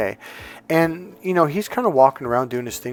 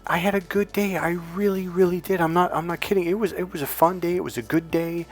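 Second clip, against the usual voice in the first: higher-pitched, imitated pleading husband; earnest insistence; 5 semitones higher, 3 dB quieter than usual. Husband assures his wife of a good day, earnest insistence. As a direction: protest your honesty in a raised pitch.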